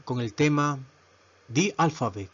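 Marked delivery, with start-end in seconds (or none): 1.5-2.3 "the" said as "di" before alphabet. Shown as a demonstration. Teacher presenting the class topic, "the" pronounced di. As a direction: say "the" with an ee vowel. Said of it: "Ahí está la pronunciación".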